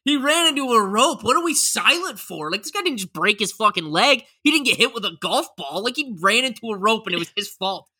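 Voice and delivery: imagined disbelief. Retold or imitated. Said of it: "I'd be like".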